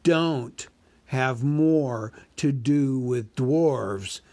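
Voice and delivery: a huge dragon toying with the thief; dragon Smaug. Acted. Narrator voices Smaug.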